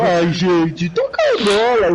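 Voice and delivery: imitating Abraão. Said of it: "o Abraão falando".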